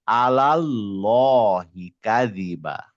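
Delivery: slow chant, light আলাল then round llo in আলাল্লাহি; rounded laam. Shown as a demonstration. Teacher correcting the student, আলাল্লাহি slowly chanted, rounded llo. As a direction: round only the second laam of আলাল্লাহি, drawing it out. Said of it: "এখানে গিয়ে এটা গোল হবে".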